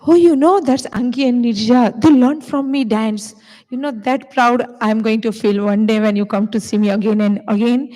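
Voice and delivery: imagine showing off your students; proud future voice. Pretend. Teacher imagines bragging proudly about her dancers. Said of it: "coming to me and say".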